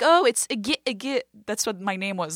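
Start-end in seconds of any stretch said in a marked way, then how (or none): 0.0-1.2 teasing. Retold or imitated. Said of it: "people would be like".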